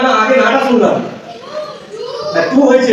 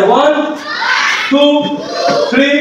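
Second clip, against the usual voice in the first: put-on kids party magician; 3 semitones higher than usual. Magician leads magic chant.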